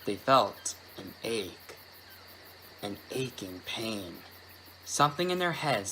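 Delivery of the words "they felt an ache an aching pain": slow, hushed and dread-filled; hushed creeping horror. A narrator's reading. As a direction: draw it out softly with dread. Hushed ominous narration.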